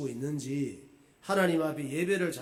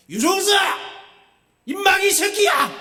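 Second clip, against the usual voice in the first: high, very loud mock shout; furious acted rebuke; 14 dB louder than usual. Pastor imitating Jesus scolding a bad minister, furious shout. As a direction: bellow the rebuke as an angry Jesus. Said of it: "예수님께서 책망하는 거예요".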